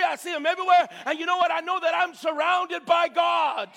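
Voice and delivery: building sermon cry on God; rising preacher shout. Real, not acted. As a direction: preach it up to the peak.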